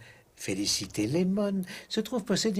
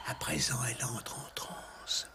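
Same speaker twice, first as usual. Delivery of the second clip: whispering; 6 dB quieter than usual. Acted. Hushed commentary at a seance.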